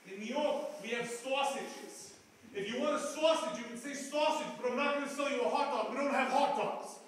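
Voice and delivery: indignant street vendor insisting on sausage; gruff vendor. Retold or imitated. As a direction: bark it at him like a hot dog guy. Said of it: "And he goes".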